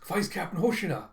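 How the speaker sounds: mildly shocked character voice; startled recognition. Acted. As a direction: blurt the name in alarm. Kafka is startled by Hoshina.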